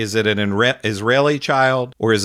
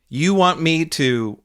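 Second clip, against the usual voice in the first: mocking quote; 2 semitones higher than usual. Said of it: "this asshole, says".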